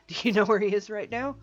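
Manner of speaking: detective shouting at a banker; loud demand. Acted. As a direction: shout the question to force an answer. Detective confronting rude banker.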